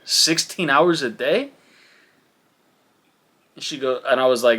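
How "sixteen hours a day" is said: drawn-out, higher rising question; incredulous. Retold or imitated. Dad questioning the nurse about baby's sleep, incredulous. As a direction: stretch the number out in disbelief.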